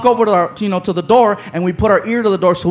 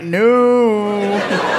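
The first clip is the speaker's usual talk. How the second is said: retold refusal; 3 semitones lower than usual. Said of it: "and they were like".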